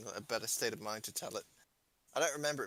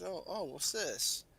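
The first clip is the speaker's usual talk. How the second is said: curious; 4 semitones higher, much slower than usual. Retold or imitated. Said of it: "so I said".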